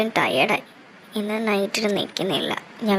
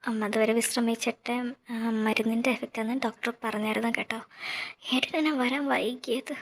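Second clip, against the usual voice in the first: hushed bedside talk; 6 dB quieter than usual. Acted. Beside sleeping mother in hospital.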